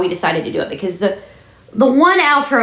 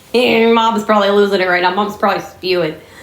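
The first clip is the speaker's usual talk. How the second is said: ordinary talk, nothing marked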